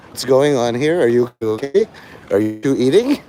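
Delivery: a hint of a doting grandma; lightly voiced worried grandmother; fussing grandma. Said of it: "like a grandma Thanksgiving".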